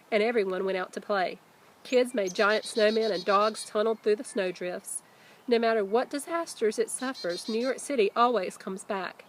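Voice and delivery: put-on lively read-aloud voice for kids; reading a letter aloud. A narrator's reading. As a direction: read the author's letter to the class with energy. Reads author's letter aloud.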